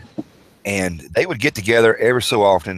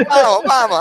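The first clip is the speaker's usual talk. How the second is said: put-on childish cry of mama, pitched up and loud; retold scream; 13 semitones higher, 5 dB louder than usual. Kid screaming for mama during the whooping. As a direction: wail for mama while getting whooped. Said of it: "I'm screaming".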